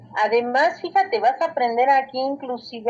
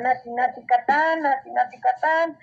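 imitated calling out; 3 semitones higher than usual. Teacher imitating Maya calling out to Spaniards, mock shouting. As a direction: call it out as Maya to distant strangers, lightly acted. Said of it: "y estos les gritaban".

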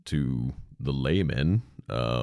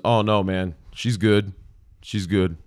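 dismissive husband; 5 semitones higher, 5 dB louder than usual. Retold or imitated.

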